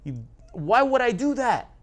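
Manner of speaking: hammed-up scorpion voice; gaslighting scorpion. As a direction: play the wronged innocent to con him. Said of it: "the scorpion gaslights the frog and tells the frog".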